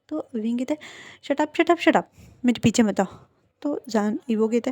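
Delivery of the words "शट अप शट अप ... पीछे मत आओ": irritated shout. Acted. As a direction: snap it at him. Jaan angrily repeats. (चिढ़कर ऊँची आवाज़ में चिल्लाना)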